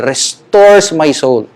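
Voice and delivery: "restores" slow and weighted, x0.5 pace; emphasis on restores. Shown as a demonstration. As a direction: lean on "restores my soul", drawn out. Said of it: "I would like to give emphasis to that word".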